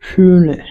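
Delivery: "শুনে" with a long umlaut vowel; model pronunciation. Shown as a demonstration. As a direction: hold the first vowel of "শুনে", then a short নে. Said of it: "ও umlaut এইচ".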